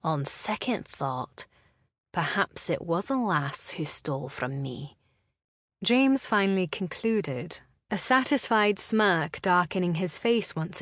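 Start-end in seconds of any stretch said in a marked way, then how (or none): 0.0-5.0 lightly voiced smug laird; a hint of a smug Scottish laird. James voiced, low and slow.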